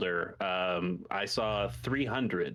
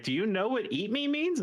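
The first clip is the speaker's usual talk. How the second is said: shocked parent; 11 semitones higher than usual. Retold or imitated. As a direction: draw it out like a stunned parent. Parents voiced in retold story.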